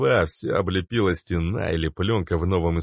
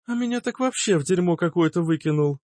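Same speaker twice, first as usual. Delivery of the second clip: much higher, whiny; complaining girl; 10 semitones higher than usual. A narrator's reading. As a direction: complain for pity. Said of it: "пожаловалась Лиана". (пожаловалась Лиана, высоко)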